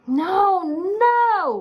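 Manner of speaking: very high, loud annoyed shout. A narrator's reading. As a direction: stop him in exasperation. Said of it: "Boris yelled".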